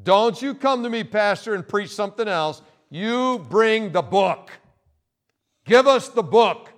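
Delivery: demanding congregation member. Retold or imitated. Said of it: "they must demand it".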